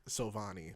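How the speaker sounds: Sovani said so-VAH-nee; name pronunciation. Shown as a demonstration. Explaining a friend's name, Sovani said so-VAH-nee. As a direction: say "Sovani" with an open AH in the middle. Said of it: "That's how you say his name".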